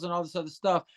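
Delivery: usual speaking voice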